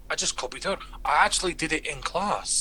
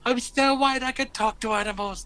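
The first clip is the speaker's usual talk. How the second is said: high, thrilled realisation; wonder-struck little outburst; excited exclamation; 8 semitones higher, 3 dB louder than usual. Retold or imitated. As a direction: exclaim it loud and high, then ease off. Exclaims in retold bird story.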